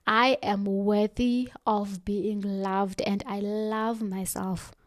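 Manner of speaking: slow, settled and sure; steady self-assurance; slow firm affirmation. Shown as a demonstration. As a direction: answer the doubt calmly, word by word. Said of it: "You talk back to that voice and say".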